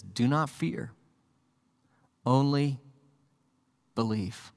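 soft, quiet "Do not fear, only believe"; hushed and tender. Shown as a demonstration. Jesus comforting the grieving father, soft and hushed. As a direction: lay it down gently, almost a breath. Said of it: "and Jesus says".

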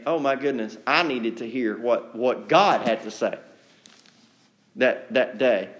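humble sincere. Pretend. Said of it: "better idea to look inward".

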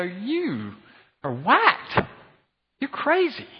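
high, incredulous jeer; mock outrage. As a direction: throw it at them like they've lost it. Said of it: "y'all would all look at that and go".

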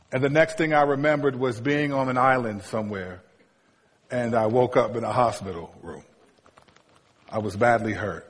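low, measured tragic recap; mock-grave storytelling. Preacher feigning a grim hospital ending to his story, mock-grave. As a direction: tell it gravely, voice sinking low.

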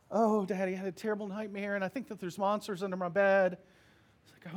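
a hint of a frightened toddler; little girl. Daughter asking father to check under the bed, lightly childlike.

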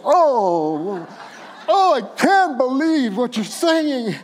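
lightly voiced, disbelieving groan; a hint of an exasperated God. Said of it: "he's just going".

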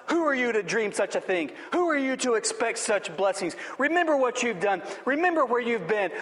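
mild mock shout of accusation; accusing. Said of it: "the enemy begins shouting accusing thoughts".

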